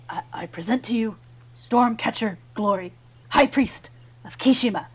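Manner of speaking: lightly played herald presenting a dignitary; formal introduction. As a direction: announce the titles, lifting the voice on the rank. Half-orc formally announces the high priest.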